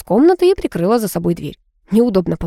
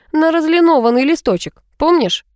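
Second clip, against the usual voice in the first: higher, pointed, needling reminder; mildly venomous narrated dig; 9 semitones higher than usual. A narrator's reading. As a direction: jab lightly with sarcasm. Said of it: "он сказал слишком ядовито".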